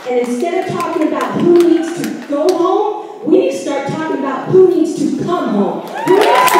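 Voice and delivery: rising angry shout at the board; getting mad. Real, not acted. Citizen at a public meeting yelling at the officials in real anger. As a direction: voice climbs into a furious yell. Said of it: "I'm getting mad".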